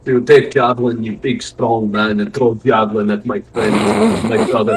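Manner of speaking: mock Russian in broken English; comic Russian tough guy; Russian accent. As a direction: accuse them in a put-on Russian accent. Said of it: "How do you do a Russian accent?".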